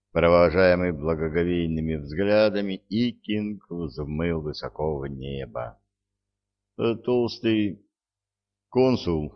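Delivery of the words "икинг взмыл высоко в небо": ordinary delivery, nothing marked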